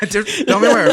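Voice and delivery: loud, laughing mock cop demand; police interrogator. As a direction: press her like a pushy detective. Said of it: "like a police officer talking to a kid".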